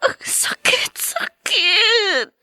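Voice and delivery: slow, aching sobbed words; slow grieving cry of pain. Acted. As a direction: let the hurt drag each word out. Grieving child at mother's memory.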